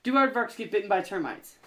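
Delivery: light attempt at an Australian accent. Redeeming himself to the co-host with a light Australian accent. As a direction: ask it in a mild Australian accent. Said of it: "let me read some more in an Australian accent".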